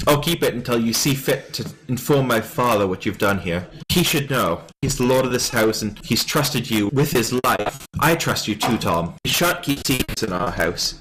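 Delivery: lightly voiced, prim noble boy; a hint of a lordling's measured reproach; formal young noble. Young lord confronts Tom over a secret letter, formal reproach.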